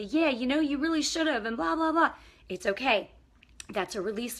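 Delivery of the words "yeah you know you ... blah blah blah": high, loud mock retort of an upset kid; hammed-up angry teenager, high and loud; upset teen. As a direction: imitate the teenager snapping back. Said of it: "they might get upset and say".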